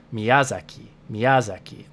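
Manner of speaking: Miyazaki with ya stressed; English stress on ya. Shown as a demonstration. Teacher returns to the ya-stressed Miyazaki. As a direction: hit the ya of Miyazaki.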